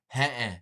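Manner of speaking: "Huh-uh" as a short falling grunt; Seneca no. Shown as a demonstration. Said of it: "We say".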